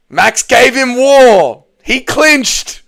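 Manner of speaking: high, slow, tearful disbelief; crying, distraught. Real, not acted. Streamer lamenting the fighter clinched, sobbing. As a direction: wail it out through tears. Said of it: "I'm still crying".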